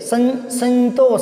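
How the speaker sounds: संतोष said sluggishly as सं- then संतोष; wrong nasal split. Shown as a demonstration. Teacher showing pupils the wrong way of saying संतोष. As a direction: drag the सं in संतोष out slowly. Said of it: "यूं नहीं कर सकते".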